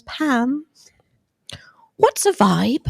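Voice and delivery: a whispered, innocent imitation of Lori; imitating Lori. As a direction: gently mimic a friend's naive question in a hush. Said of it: "I did say it in your voice".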